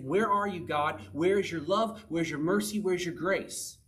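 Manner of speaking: mildly anguished, insistent questioning; pleading questions. Acted. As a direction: demand answers from an absent God. Voicing psalmist's anguished questions to God.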